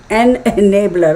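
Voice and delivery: laughing through "an enabler". Real, not acted. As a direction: chuckle while saying "enabler". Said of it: "now I feel like I'm stuttering".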